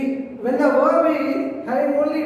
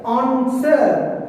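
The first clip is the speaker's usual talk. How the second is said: "answer" with the weight on AN; stress on first syllable. Shown as a demonstration. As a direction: demonstrate "answer" as AN-ser, stressing the beginning. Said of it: "giving the stress at the beginning".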